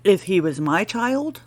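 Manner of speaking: usual speaking voice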